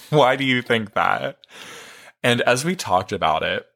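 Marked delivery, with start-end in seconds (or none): 0.1-1.4 laughing. Real, not acted. Laughs mid-quote.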